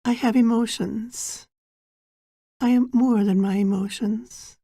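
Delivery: measured meditation guide, long pauses between phrases; guided meditation. Acted. Guide preparing listeners for an inner journey, guided meditation. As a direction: guide them gently inward, phrase by unhurried phrase.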